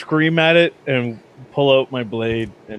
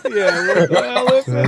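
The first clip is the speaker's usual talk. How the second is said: panicked shout; 5 semitones higher than usual. Acted.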